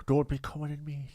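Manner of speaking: retold line in put-on Irish; Irish accent. Host re-quoting a past lover, Irish accent. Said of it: "How I've become Irish now".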